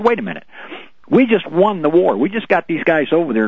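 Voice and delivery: Wait, high and sharp, rising outrage; indignant protest. Retold or imitated. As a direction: protest like you can't believe it.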